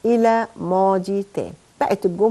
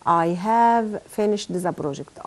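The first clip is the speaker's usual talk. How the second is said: slow softer repeat; 3 semitones lower, 5 dB quieter, much slower than usual. Shown as a demonstration. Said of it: "نقول مع بعض كده".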